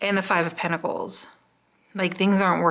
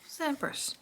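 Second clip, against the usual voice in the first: whisper; 8 semitones higher, 13 dB quieter than usual. Real, not acted. Asking the cards again.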